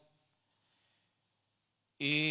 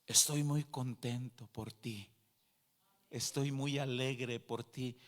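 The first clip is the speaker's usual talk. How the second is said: lightly voiced holy figure, slower and lower; robed heavenly figure; 4 semitones lower, much slower than usual. Robed figure to the newly baptized sister, lightly voiced, tender reassurance. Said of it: "un personaje con vestiduras blancas".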